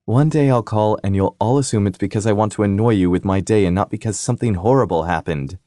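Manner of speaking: a bright, needling little sister; sister's voice. Acted. Sister Tabby's voice on phone.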